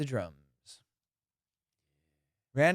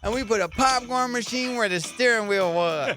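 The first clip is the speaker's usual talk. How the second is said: higher, hyped makeover-show host voice; hammed-up Pimp My Ride host presenting the car; 6 semitones higher than usual. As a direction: sell the crazy car upgrade like a TV host. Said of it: "Pimp My Ride".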